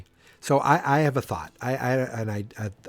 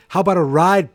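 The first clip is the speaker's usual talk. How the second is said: louder call; 6 semitones higher, 8 dB louder than usual. Retold or imitated. Jen's surprise line, then boom.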